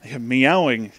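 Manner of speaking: ordinary delivery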